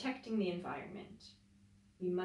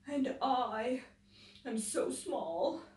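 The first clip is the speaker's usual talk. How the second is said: howled; 3 semitones higher, much slower than usual. Acted. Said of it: "howled Wolf".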